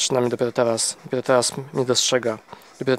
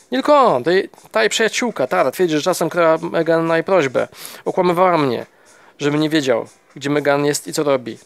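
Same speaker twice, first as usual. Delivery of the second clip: indignant outburst; 4 semitones higher than usual. Acted. Husband's rising grievance.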